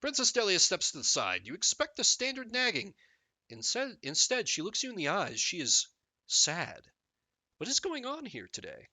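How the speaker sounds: measured storybook narrator; expressive read-aloud narration; game story narration. Acted.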